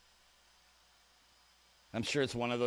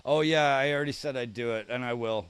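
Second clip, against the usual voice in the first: emphatic loud; 7 dB louder than usual. Real, not acted. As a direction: bark back a firm reassurance to chat. Emphatic reply to chat's demand.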